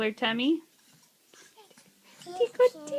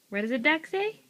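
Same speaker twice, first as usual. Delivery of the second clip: What does a duck say asked higher with a rising end; higher asking; 5 semitones higher, faster than usual. Real, not acted.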